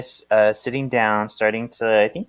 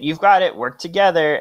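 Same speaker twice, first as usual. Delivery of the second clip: cheering teacher; 5 semitones higher, 5 dB louder than usual. Retold or imitated. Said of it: "Mister Lewis says".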